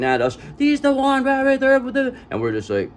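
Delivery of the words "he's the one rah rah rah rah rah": mocking gibberish. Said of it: "that person's like".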